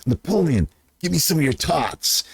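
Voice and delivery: mock whiny begging for tots; movie line quote. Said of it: "the line comes out".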